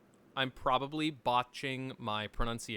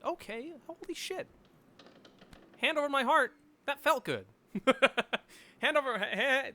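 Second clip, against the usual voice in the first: excited; 10 semitones higher than usual. Real, not acted. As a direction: gleefully declare it, pitch up. Tipsy streamer exclaiming happily.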